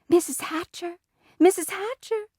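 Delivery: put-on high, singsong girlish call. A narrator's reading. Sheila calling to Peter's mother, calling out. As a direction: call for her attention, pitched well up. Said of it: "Sheila called".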